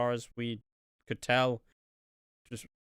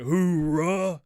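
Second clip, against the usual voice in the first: mock cheer; 3 semitones higher, 6 dB louder than usual. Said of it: "Miz comes out, like".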